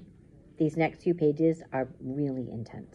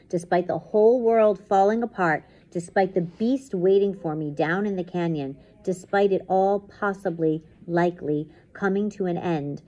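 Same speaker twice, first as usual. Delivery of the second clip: dramatic story narration; 3 semitones higher, 4 dB louder, slower than usual. A narrator's reading. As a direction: build each despite, then settle into sleep. Reads story aloud.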